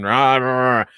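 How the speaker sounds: grunting rock-singer growl; mock grunge grunting; a rock singer. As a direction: grunt out wordless singing noises. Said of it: "grunting rock-singer impersonation".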